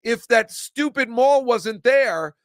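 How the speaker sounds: building indignation that drops off at the end; carried-away rant. Real, not acted. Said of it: "Sorry, I got carried away".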